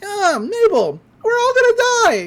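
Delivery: high, loud panicked yell; panicked scream. Acted. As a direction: shriek it as everyone flees. Partygoers flee the earthquake.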